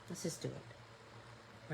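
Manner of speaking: slow whisper to herself. Real, not acted. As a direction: breathe it under the breath. Murmuring to herself while painting.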